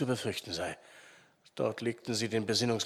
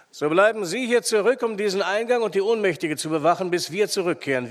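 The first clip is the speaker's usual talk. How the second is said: loud, brisk commands; firm raised voice; giving orders; 4 semitones higher, 7 dB louder than usual. A narrator's reading. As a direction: take charge and order the men. Arndt orders men into action.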